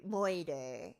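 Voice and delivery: "murder" said as "moyder"; old-movie accent. Acted. Solving the film's mystery, "murder" as old-movie "moyder".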